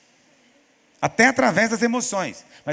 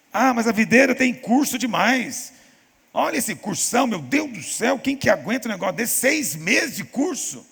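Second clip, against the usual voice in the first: mock complaint; 5 semitones higher than usual. Pastor mimicking a church member who whines about the long course.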